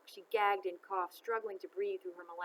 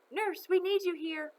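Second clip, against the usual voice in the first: loud, higher call across the room; 11 semitones higher, 9 dB louder than usual. A narrator's reading. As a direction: call for the nurse from far side. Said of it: "someone called from the other".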